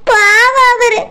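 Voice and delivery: weepy, whimpering complaint; tearful. Acted. Wife lamenting to sister-in-law, crying. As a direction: lament through tears. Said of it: "சரிம்மா, அழாத".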